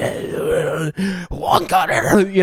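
a lightly done demon noise, rising; a rough try at a demon sound; demon sound effect. Retold or imitated. Sneaking up on his friend with a demon noise. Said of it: "impersonate my best demon sound effects".

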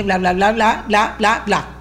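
dismissive rattled-off blahs; mock the endless chatter; blah-blah of tedious procedure. Mocks endless motions talk.

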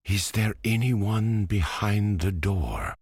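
very loudly. A narrator's reading. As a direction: push it out loud to fake courage. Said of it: "said very loudly".

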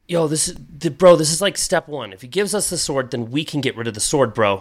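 bro voice. Acted. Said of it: "Vrath's like".

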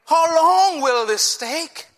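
pleading how-long cry; exasperated outcry. Acted. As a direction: stretch it out in desperate frustration. Believer's complaint rising to outcry.

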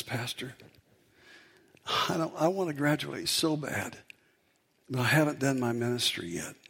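quiet, tearful plea; crying plea. Retold or imitated. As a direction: softly retell her tearful begging. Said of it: "she's crying now".

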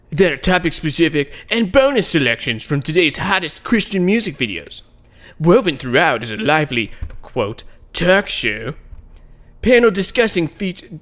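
lightly put-on teen promo voice; promo announcer voice. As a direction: read it like a cheesy video ad. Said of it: "not actually a California teenager voice".

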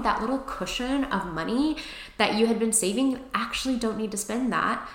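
lightly voiced calm inner guide; a hint of a soothing voice in her head. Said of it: "hearing this kind of voice in my head".

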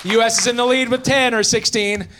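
slow, loud, high showman introduction; grand quiz show announcement; drawn-out announcer. Acted. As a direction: stretch the name out like a game show host. Host announces scores grandly.

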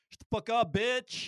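shouted high, hyped-up hype man yell; black voice translator. Retold or imitated. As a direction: bark it out like a loud sidekick. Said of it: "his black voice, uh, translator".

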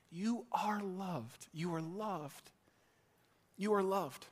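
soft, hushed, slow reassurance; quiet assurance. Real, not acted. Pastor softly telling the grieving they are loved, hushed. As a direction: say it gently to someone who is hurting.

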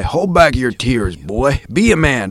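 mock the macho line; mock macho father.

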